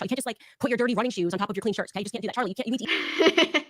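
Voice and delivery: mock nagging, rising in pitch; playful bickering, building to exasperation; bickering spouse. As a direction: scold him like a long-married partner. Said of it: "bickering like an old married couple".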